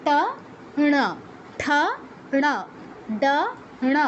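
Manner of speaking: ট, ঠ, ড each followed by retroflex ণ, spaced apart; retroflex practice drill. Shown as a demonstration. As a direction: alternate each retroflex stop with a curled-tongue ণ. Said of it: "এভাবে". (মূর্ধন্য ধ্বনির পর পর ণ, থেমে থেমে)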